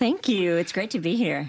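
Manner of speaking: smiling, joyful, cheerful voice. A guest thanks the host for the welcome onto the show: smiling, joyful voice. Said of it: "that smile and joy in your voice".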